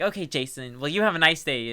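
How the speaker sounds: bitter, hostile delivery. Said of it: "in the inflection of "fuck you."".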